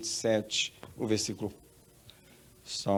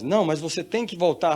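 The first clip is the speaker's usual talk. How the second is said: raised, higher acted order; insist, louder and pitched up; insistent command; 6 semitones higher, 6 dB louder than usual. Heavenly voice answering the reluctant woman, loud insistence.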